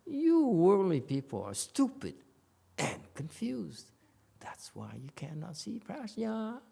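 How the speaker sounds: high, emphatic denouncing, slowing on CONFUSED; condemnation. Shown as a demonstration. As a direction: condemn them, punching YOU and STUPID. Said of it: "No, this is a condemnation".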